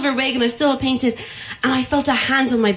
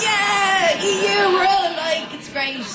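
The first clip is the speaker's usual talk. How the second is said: high, bright-pitched eager reply; playful pitched-up agreement; mock cheerful; 10 semitones higher, slower than usual. Naked cyclist answering fans who cheer her, higher and excited.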